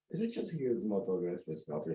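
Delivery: hushed disbelief, under the breath; incredulous inner thought. Retold or imitated. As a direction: think it aloud, stunned and offended. Retold inner outrage.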